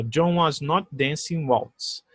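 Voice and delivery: very slow, deliberate English; slow model negative. Shown as a demonstration. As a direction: read the negative slowly. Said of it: "Você repara o seguinte". (frase negativa lenta)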